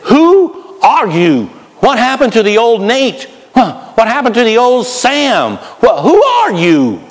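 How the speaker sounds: high, hammed-up disbelief; shocked. Friends of a new Christian reacting to the change, shocked disbelief. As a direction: stretch it out in mock shock. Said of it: "look at you with shocked eyes and say".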